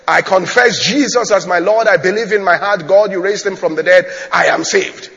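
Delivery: loud, firm declaration of faith; declaring. Retold or imitated. Retold convert confessing faith before the church, declaring. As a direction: profess it out loud, steadily. Man's confession in told story.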